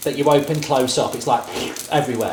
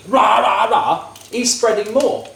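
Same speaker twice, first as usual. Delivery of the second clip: mock ranting shout; 7 semitones higher, slower than usual. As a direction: bellow it like a ranting politician, half laughing. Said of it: "if I speak like this, a bit like D T".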